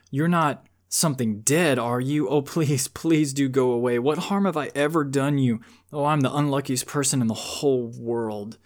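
put-on a boy begging a ghost to go away; mild scared near-scream. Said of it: "almost in a scream".

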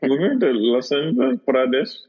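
put-on joking Indian accent, bouncy; light Indian accent; mock Indian accent. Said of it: "pretty good Indian accent".

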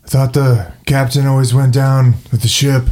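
lightly imitated action-hero voice; a light impression of a film tough guy; Bruce Willis. Player quipping about the captain and the ship, Bruce Willis impression. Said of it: "Bruce Willis accent there".

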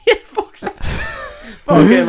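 high hammed-up shout; mock American shout. Joining the mock American, high and shouted. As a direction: yell it like a gleeful cartoon American.

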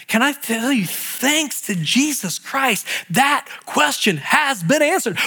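usual speaking voice

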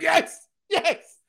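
high, loud words laughed out in delight; cracking up as he says it; real laughter through the words; laughing. Real, not acted. Laughing at the recognition.

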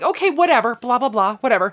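dismissive brush-off. Retold or imitated. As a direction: wave him off like it doesn't matter. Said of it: "she was kinda like".

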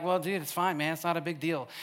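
Nick's calm. Retold or imitated. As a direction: imitate an unbothered friend brushing it off. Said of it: "you're like Nick".

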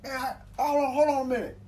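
a hint of the helpful stranger; lightly voiced helper. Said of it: "He's like".

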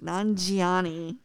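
"Nanjiani" spelled out slowly, nahn-jee-AH-nee; slow, exotic-sounding "Nanjiani"; careful pronunciation. Shown as a demonstration. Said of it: "That sounds Italian to me".

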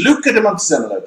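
Luca de Montezemolo rattled off fast and plain; quick correct pronunciation. Shown as a demonstration. Showing how easy the name is, fast. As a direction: zip through Montezemolo with clean vowels. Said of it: "all the E's are E".

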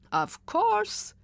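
put-on high, drawn-out old lady voice; an old woman indulging a child; old lady's sweet reply. A narrator's reading.

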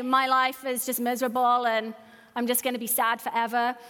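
low, sorry-for-myself moan, lightly acted; mildly mock a wallower in self-pity. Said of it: "not to pursue self-pity".

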